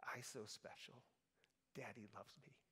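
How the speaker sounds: put-on barely audible, soft child's whisper, very quiet. Parent retells son Garrett in the back seat talking to himself, imitating a whisper. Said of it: "he's just like whispering".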